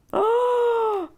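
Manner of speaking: long, high exclaimed oh; exaggerated storyteller's "oh"; high oh sliding down; drawn-out high oh. Story gasp as helper arrives.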